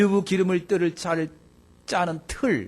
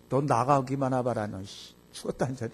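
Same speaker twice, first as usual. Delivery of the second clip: threat from wife in labour; 4 semitones lower, 7 dB quieter than usual. Retold or imitated. Wife in labour threatens yawning husband.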